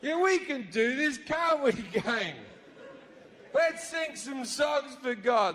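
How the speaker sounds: very high, overexcited cheer; eager crowd. Acted. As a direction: hype up the gang like nervous fans. Followers cheer to please God.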